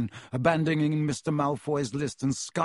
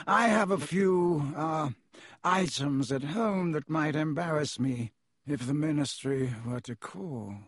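cold aristocrat. Acted. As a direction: weigh each word with disdain. Malfoy voiced by reader.

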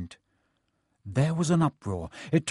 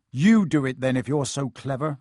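snarling; 4 dB louder than usual. Acted. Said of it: "Ron snarled".

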